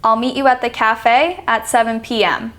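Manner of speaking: undulating tune through "meet you at the cafe at seven P M"; falling-rising intonation. Shown as a demonstration. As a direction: pitch up and down across "cafe" and "seven P M". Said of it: "That's falling, rising".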